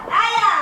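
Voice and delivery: mock wailing "ow". Maid insisting on her pleasure of crying, wailing. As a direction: cry "ow" over his scolding. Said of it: "שלפחות יהיה לי עונג לבכות".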